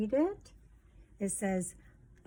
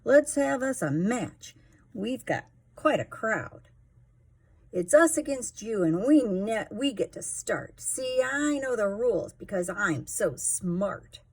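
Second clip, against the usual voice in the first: bragging cheater voice; 2 semitones higher, 5 dB louder than usual. Acted. Sleater bragging to the other team, smug and loud. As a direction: show off like the smartest kid on the field. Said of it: "said Sleater aloud".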